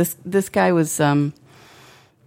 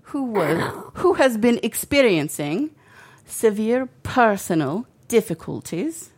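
measured, higher-pitched mock English accent, sounding Irish; lilting English accent that slips toward Welsh; attempted English accent; 4 semitones higher than usual. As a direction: read a formal statement in a bad Yorkshire accent. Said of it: "your English accent is your Irish accent".

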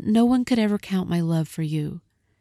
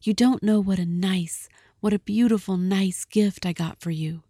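pleading Della; 3 semitones higher than usual. Acted. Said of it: "she cried".

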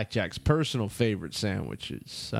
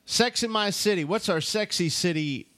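excited announcement; 6 semitones higher than usual. Acted. Echoing the segment title.

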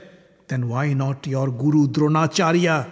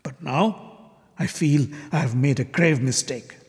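angry accusation; 3 semitones higher than usual. Acted. Shishupala's angry tirade in the assembly.

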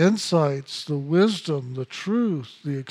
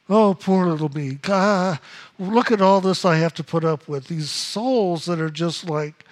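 whiny complainer. Retold or imitated. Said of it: "But God isn't a complainer".

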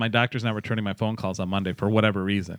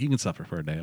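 blunt mom; 6 semitones lower, 7 dB quieter, faster than usual. Retold or imitated. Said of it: "my mom's very blunt".

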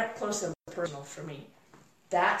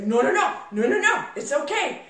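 louder, rising brush-off of worry; insistent reassurance; 4 semitones higher, 4 dB louder than usual. Retold or imitated. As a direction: imitate an instructor waving away fears. Instructor urging her on, retold.

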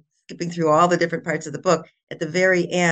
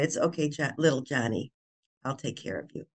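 lower, much softer soothing grown-up; comforting adult; 3 semitones lower, 8 dB quieter than usual. Retold or imitated. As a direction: gently settle a frightened child. Adult comforts crying boy.

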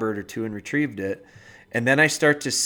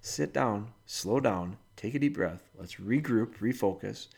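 calm soothing commands; 5 dB quieter than usual. Retold or imitated. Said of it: "you said".

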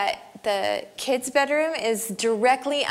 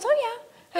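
whispered husband reply; 13 semitones higher than usual. Retold or imitated. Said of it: "He goes".

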